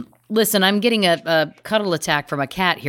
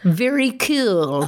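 drawn-out repeat; much slower than usual. Real, not acted. Teasing repeat of own phrase.

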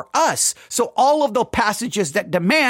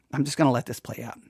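ordinary delivery

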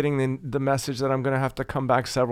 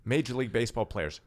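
commercial voice; 4 dB quieter than usual. Acted. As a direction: say it like a TV ad tagline. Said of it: "That's your commercial voice".

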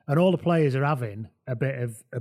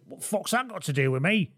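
higher, indignant Manc voice; a singer; 6 semitones higher than usual. Retold or imitated. Steve Diamond answers complaint, indignant Manc swagger. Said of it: "essentially become a singer in your retelling".

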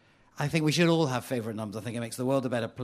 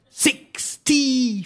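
high, loud, epic proclamation, stretched slow; 11 semitones higher, 9 dB louder, much slower than usual. Acted. Reader proving to audience the number sounds epic, epic boom. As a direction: boom it out, long and drawn-out. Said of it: "it sounds epic. Just say it".

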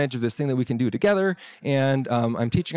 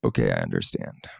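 stammered, much lower and shaken; stammering. Retold or imitated. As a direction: get it out haltingly, cowed by the boss. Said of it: "I stammer".

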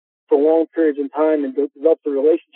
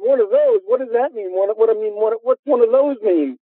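higher, playful offended disbelief; mock indignant surprise; 6 semitones higher than usual. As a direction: act affronted in fun while retelling. Retold indignant reply to the player.

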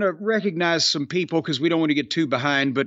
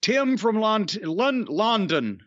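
ordinary talk, nothing marked

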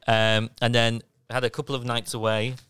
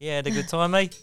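lightly mimicked New Zealand accent; 4 semitones higher than usual. Traveller imitating his own holiday speech to friends, New Zealand accent. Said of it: "I dropped the accent".

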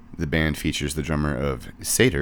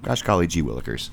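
hammed-up goody-goody voice; fake wholesome. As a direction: play an innocent Boy Scout. Mock wholesome exclamation.

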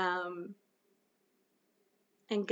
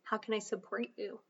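supportive; 12 dB quieter than usual. Shown as a demonstration. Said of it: "we say".

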